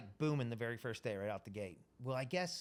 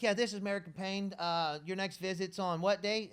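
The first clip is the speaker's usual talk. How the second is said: mock receptionist; 7 semitones higher, 5 dB louder than usual. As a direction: play the chirpy clinic receptionist. Staff voice, mock phone greeting.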